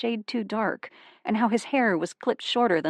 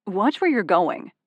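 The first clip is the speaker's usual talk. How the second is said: slow, louder annoyed warning; irritated scolding; 2 semitones higher, 5 dB louder than usual. Acted. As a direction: scold her with clipped annoyance. Stranger scolding her.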